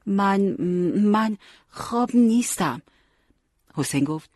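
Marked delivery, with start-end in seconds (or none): 0.1-2.8 acted drowsy protest, dragged and higher; slow, high-pitched, half-asleep denial; sleepy. A narrator's reading. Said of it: "علی خوابالود گفت".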